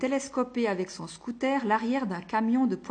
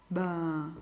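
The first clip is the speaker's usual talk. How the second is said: curious grunt; 3 semitones lower than usual. A narrator's reading. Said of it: "d'une façon bien curieuse".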